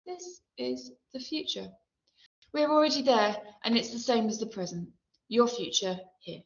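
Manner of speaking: wife's weary prophecy, lightly acted; lightly voiced wife. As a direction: quote the wife, lifted in pitch. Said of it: "my wife says".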